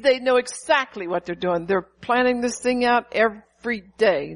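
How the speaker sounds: God telling the preacher the truth, firm; God's firm correction. Retold or imitated. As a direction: lay it down as a firm fact. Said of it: "he said".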